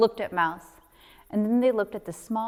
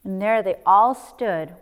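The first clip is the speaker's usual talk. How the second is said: ordinary delivery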